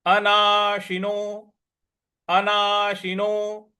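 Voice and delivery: अनाशिनो slow with a short इ on शि. Shown as a demonstration. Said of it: "अना श पर छोटी की मात्रा है".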